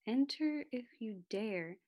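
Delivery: slow spooky sign reading; spooky ride narrator. Acted. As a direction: drag it out like a haunted ride. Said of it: "What does that sign say?".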